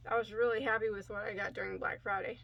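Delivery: talking with a dry mouth; sticky dry-mouthed speech. Real, not acted. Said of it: "Sorry, I have a dry mouth today".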